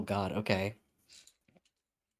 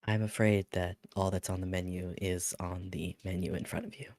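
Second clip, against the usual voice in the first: polite, formal host voice; smooth, courteous service tone; customer service voice; 3 semitones lower, 5 dB quieter than usual. Acted. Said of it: "Peak customer service voice".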